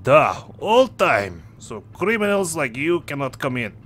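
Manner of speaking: surly sailor dropping articles, mild mock accent; gruff sailor. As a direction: brush off the nosy passengers like a surly deckhand. Same sailor NPC answers.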